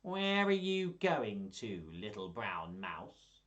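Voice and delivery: slow, sly, drawn-out fox voice. Acted. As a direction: tempt the mouse like a crafty fox. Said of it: "do all the voices".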